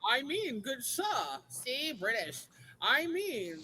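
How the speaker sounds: a light mock posh British accent, slow and stately. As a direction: put on a hint of an upper-class English gent. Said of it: "do your posh British voice".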